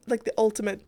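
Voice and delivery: short of breath while talking; breathless from allergies. Real, not acted. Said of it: "I'm getting kind of out of breath".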